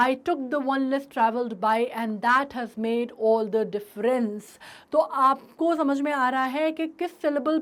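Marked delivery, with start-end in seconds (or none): 0.1-4.4 "difference।" with weight on its last syllable; stress on ENS. Shown as a demonstration. Teacher showing students where the line's stress falls, stress on the end of "difference।". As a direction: lean on the "ence" ending of "difference।". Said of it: "डिफरेंस का जो एंस है उस पे सबसे ज़्यादा".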